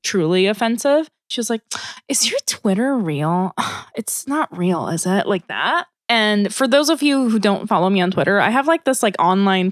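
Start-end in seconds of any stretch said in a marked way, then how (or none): 2.1-5.2 condescending tone. Retold or imitated. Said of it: "weird fucking tone".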